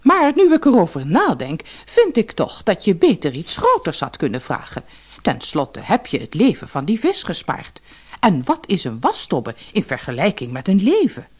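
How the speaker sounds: hoog ingezet, licht gespeelde vrouw; vrouw van de visser. Acted. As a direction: een beetje zeurende visserswijf. (hoge stem van de vissersvrouw)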